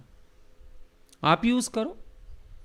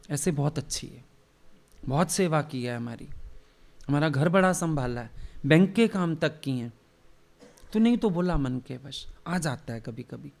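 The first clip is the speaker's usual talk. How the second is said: calm a disciple kindly; lovingly; 4 semitones lower than usual. Retold or imitated. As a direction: master gently excusing the rude woman to a disciple. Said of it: "बड़े प्यार से बोलते हैं".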